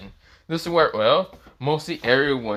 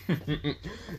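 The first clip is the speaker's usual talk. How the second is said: acted chuckle; 5 semitones higher, 7 dB quieter than usual. Character chuckles after boasting.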